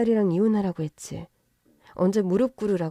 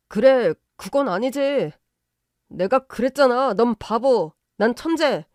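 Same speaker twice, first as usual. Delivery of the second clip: mocking taunt; 3 semitones higher, 3 dB louder than usual. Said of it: "발끈하더군요".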